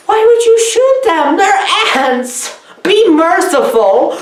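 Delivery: high, hammed-up outrage; mock pleading. Viewer pleading with characters to spare the ants, mock distress. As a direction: beg for mercy in exaggerated distress.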